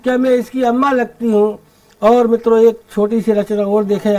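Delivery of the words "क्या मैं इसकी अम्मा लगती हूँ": lilting, declaimed humorous verse; comic poem recitation. Acted. Poet telling the Holi mishap to the audience, comic verse recitation. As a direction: recite in measured lines for a live crowd.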